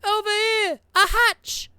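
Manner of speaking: high, loud call across the street; yelling. Acted. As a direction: yell it out to the group. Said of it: "Islington yells".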